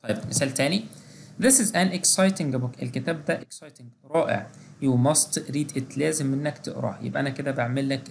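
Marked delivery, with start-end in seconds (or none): 1.4-2.8 teacher reading a model sentence slowly; slow example read. Shown as a demonstration. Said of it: "example sentence in lesson". 4.8-6.0 teacher reading a model sentence slowly; slow example read. Shown as a demonstration. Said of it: "example sentence in lesson".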